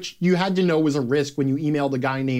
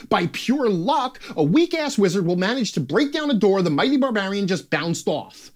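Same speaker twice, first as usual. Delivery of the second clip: worked-up sarcasm, pitched higher; sarcastic rant; 4 semitones higher than usual. Acted. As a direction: hammer home the mock outrage. Sarcastic rant about dice complaints.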